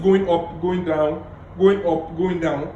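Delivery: up and down tone. Shown as a demonstration. Coach playing with tone for listeners. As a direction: voice rising on going up, dropping on going down. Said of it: "playing with my tone".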